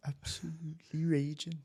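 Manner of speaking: tentative Geordie impression; Charlotte from Geordie Shore. Shown as a demonstration. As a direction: try a Geordie reality-show catchphrase. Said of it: "like Charlotte from Geordie Shore".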